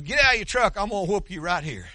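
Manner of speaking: high, loud threatening yell; angry shouted challenge. Retold or imitated. Angry old man shouting at the pastor in his truck, threatening. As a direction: bellow it like a man spoiling for a fight.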